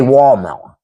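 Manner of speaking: "wall melon" for watermelon with a heavy tongue. Shown as a demonstration. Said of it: "make your tongue super heavy".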